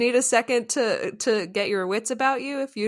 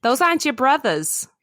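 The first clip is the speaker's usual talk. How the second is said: loud, raised New York raccoon parent; New York accent; 7 semitones higher, 5 dB louder than usual. Acted. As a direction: call the kid back in a brash New York accent. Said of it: "The raccoon has a New York accent".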